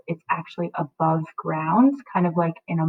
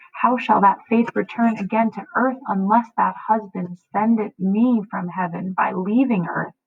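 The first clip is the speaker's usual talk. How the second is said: anxious, pleading daughter; desperate; 3 semitones higher than usual. Acted. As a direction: beg the nurse for comfort. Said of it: "her demeanor has changed".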